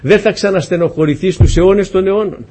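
impassioned preaching. Real, not acted. Preacher promising believers an end to pain, impassioned. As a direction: preach it with rising force.

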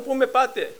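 pleading cry, pitched high; retold desperate cry. Man lifted by the claw, high pleading shout. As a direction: cry out high as you're hauled upward. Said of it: "αυτός φώναζε".

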